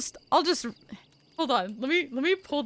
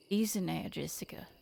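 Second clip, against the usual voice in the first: soft, breathy near-whisper; quiet menace; 3 semitones lower, 7 dB quieter, faster than usual. Acted. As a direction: murmur it close behind her. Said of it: "a voice spoke quietly above me".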